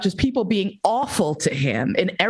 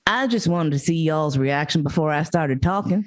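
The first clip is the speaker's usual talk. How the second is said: imitated Southern comedian; lightly put-on Southern accent, retelling a stage opener. Comedian addressing the silent audience, lightly imitated Southern accent. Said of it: "a Chinese guy with a Southern accent".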